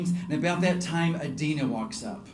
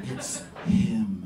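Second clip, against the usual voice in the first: Adina's voice; 5 semitones lower than usual. Retold or imitated. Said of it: "Adina spoke with a really low voice".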